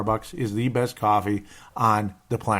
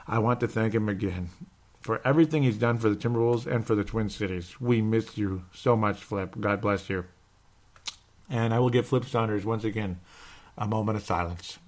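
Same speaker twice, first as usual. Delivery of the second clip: soft, subdued remembrance; hushed, sincere memorial tone; solemn tribute; 5 dB quieter than usual. Real, not acted. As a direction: pay quiet respect to someone who died. Tribute on anniversary of a death.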